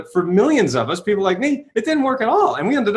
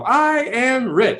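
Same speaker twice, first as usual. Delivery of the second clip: slow, unconvinced; 6 semitones higher, much slower than usual. Retold or imitated. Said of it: "And they go".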